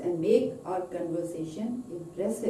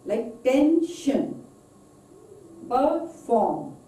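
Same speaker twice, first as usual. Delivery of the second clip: "tension" and "perform" said slowly with clear stress; deliberate, emphatic example words; word stress demo; 2 semitones higher, slower than usual. Shown as a demonstration. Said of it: "These are the examples where you can see the proper stress".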